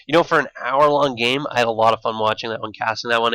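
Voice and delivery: slushy sh for s; lisping through the s sounds. Real, not acted. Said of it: "sorry guys for my lisp".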